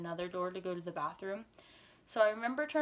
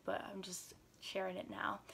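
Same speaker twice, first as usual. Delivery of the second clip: whisper; 6 dB quieter than usual. Real, not acted. Aside whispered to viewers.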